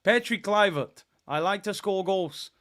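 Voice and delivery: mock Dutch accent. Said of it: "Not a bad Dutch accent".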